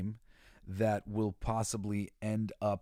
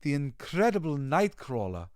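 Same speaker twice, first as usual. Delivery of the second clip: lightly put-on German accent, lifting to a showman's flourish; a touch of theatrical German-accented circus introduction; Nightcrawler impression; 4 semitones higher than usual. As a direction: announce yourself with a hint of a German accent. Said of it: "I hope that we get to see what's his face".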